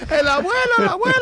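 high, loud alarmed cries; panicked shouting. Retold or imitated. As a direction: yell again in a panic. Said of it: "todo el mundo allí gritando".

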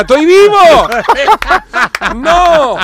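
high, loud desperate cry; high-pitched, loud shout of a panicked little fish; Nemo shouting. Acted. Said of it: "Nemo empieza a gritar".

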